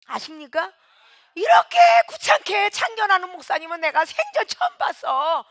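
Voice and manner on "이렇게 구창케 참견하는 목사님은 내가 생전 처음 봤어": loud, much higher complaining shout; a churchgoer shouting about a meddling pastor; indignant shout. Retold or imitated. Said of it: "이래가면서 얘기하잖아요".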